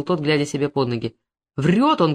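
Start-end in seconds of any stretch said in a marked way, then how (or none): 1.6-2.1 a moderate shout, not full force. Acted. A captured poacher shouting to deny the charge, mildly loud. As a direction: snap out an angry denial. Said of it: "крикнул Зуев".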